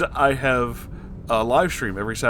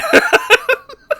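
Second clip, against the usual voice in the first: high shrieking laugh; 6 dB louder than usual. Real, not acted.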